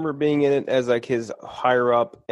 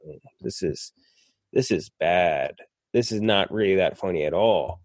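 mildly let down; 5 semitones lower than usual. Retold or imitated. Retold letdown on rewatching the movie.

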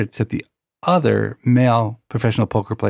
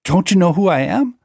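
indignant bark, higher pitched; retold bark; 7 semitones higher than usual. Angry poker rival to the player beating him, retold as a bark. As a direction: imitate an affronted rival barking a challenge. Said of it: "he barks at me".

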